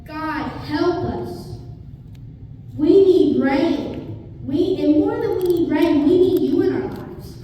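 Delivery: an imitated desperate plea, stretched slow; pleading cry to God. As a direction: cry out to God for rain, drawn out. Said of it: "I can almost see Elijah screaming and saying".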